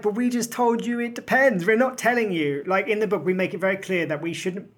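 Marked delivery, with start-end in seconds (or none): 0.0-2.6 exasperated protest. Retold or imitated. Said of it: "And we're like".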